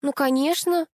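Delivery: drawled. A narrator's reading. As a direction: stretch it out sarcastically. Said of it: "протянула Алиса".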